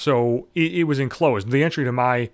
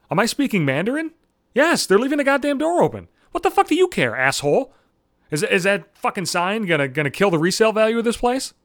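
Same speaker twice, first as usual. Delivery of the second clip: pitched-up furious sarcasm; 3 semitones higher than usual. Retold or imitated. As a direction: tear into him with mock disbelief. Ranting at the realtor.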